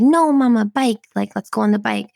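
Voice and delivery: a hint of an insistent little kid; excited little daughter. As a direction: pipe up like a toddler pleading for a ride. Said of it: "she was already excited".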